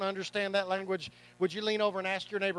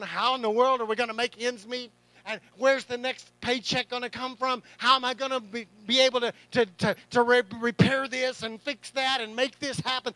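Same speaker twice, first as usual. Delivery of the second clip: louder, rising panic over the bills; anxious worrying; 6 dB louder than usual. Retold or imitated. Pastor voicing his late-night money fears, anxious and louder. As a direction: fret aloud, stumbling as the worry builds. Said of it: "I lay awake at night sometimes going".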